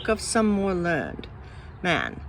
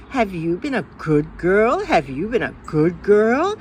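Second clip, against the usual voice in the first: nagging grown-up; 4 dB louder than usual. Retold or imitated. Adults nagging the child Jane.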